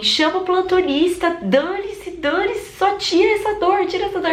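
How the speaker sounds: high, strained cry for the pain to stop; desperate pleading yell. Retold or imitated. Woman in labor begging her doctor, high desperate yell. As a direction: beg at the top of your range. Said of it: "eu gritava assim".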